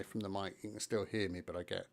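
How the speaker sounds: far from the mic, echoing room; big hall echo. Shown as a demonstration. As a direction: lean back and let the room echo. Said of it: "quite echoey".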